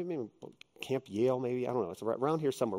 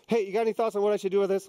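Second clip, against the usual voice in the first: mock casual ask; 5 semitones higher, 4 dB louder, faster than usual. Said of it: "like me asking you for advice".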